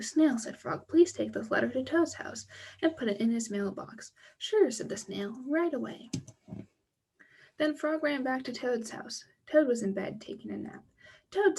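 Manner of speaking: lively storybook read with character voices; reading to children. Acted. Teacher reading a Frog and Toad story to children, animated storybook voice. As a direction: read the tale aloud to the kids, bright and animated. Reads second story aloud.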